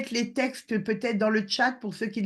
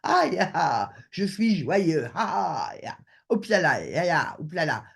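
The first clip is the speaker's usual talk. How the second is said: playful joy; 2 semitones lower than usual. Shown as a demonstration. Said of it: "l'état d'esprit qui me fait dire".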